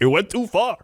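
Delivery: high, punchy Chicago radio ad voice; Chicago ad guy. Retold or imitated. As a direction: deliver the ad tag line like a Chicago pitchman. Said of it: "I say it with him".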